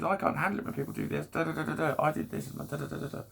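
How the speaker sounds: high whiny complaining; spoilt brat. Retold or imitated. Inner spoilt brat complaining in a high whine. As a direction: whinge like a spoilt kid. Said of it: "spoilt brat".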